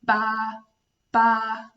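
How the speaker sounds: light baa, at her own pitch; gentle baa for kids; sheep baa. Shown as a demonstration. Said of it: "and says".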